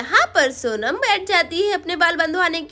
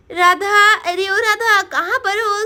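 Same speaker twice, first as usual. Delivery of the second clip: raised voice hailing a neighbour; calling out; 3 semitones higher, 4 dB louder than usual. Pretend. Mother arriving at Radha's house, calling out. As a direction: call through the house for someone.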